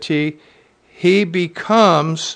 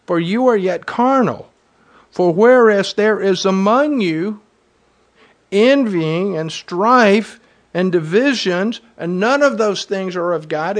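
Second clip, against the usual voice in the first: "For you are yet carnal" read again louder, with weight; emphatic scripture reading; 4 semitones higher, 4 dB louder than usual. Shown as a demonstration. Pastor rereading the verse to drive it home, louder and emphatic. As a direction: reread it with more force.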